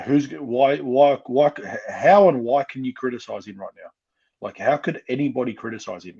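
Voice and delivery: loud, rising, indignant questions; fired up. Real, not acted. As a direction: hammer each why as you get worked up. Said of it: "I don't know why I'm getting fired up".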